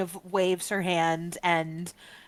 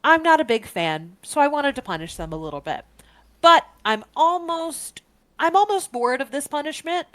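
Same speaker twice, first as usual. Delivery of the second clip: Bog Witch voice; 7 dB louder than usual. Acted. Witch voiced by the game master.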